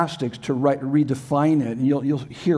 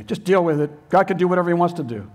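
mock Calvinist; 3 semitones higher, faster than usual. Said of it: "I've heard Calvinists say that to me".

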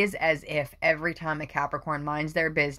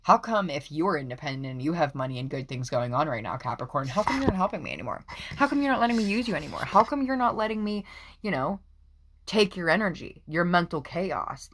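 whiny envious people; 2 semitones higher than usual. Retold or imitated. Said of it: "They're like".

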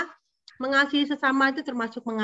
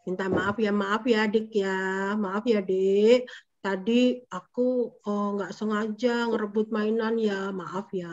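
put-on mild, slightly lowered child's apology; apologizing; 3 semitones lower, slower than usual. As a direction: model a gentle sorry to a younger sibling.

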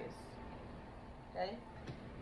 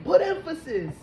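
much higher and louder order; insistent quoted command; 10 semitones higher, 11 dB louder than usual. Retold or imitated. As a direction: shout the relayed command emphatically. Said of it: "They keep saying".

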